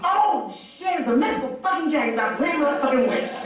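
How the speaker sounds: high, fast gushing; hyped fan. Retold or imitated. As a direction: imitate an overexcited fanboy. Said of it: "he thought he was gonna be like".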